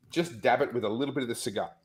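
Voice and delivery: hiccuping mid-sentence; words broken by hiccups. Real, not acted. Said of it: "I'm s-, hiccuping all of a sudden".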